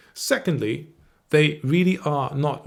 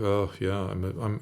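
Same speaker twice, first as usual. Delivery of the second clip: always down low; 3 semitones lower, 4 dB quieter than usual. Shown as a demonstration. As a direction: stay down in the low range, monotone. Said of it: "you're always down here".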